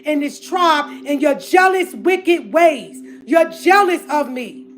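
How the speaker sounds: angry rant. Real, not acted. Public rant at gossiping sisters.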